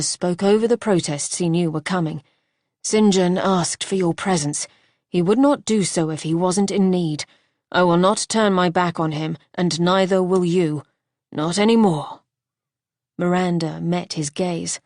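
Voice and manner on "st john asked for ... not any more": louder, commanding man's voice; firm husband. Acted. Husband insisting they help her brother, firm. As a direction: lay down the law. Archer gives firm orders.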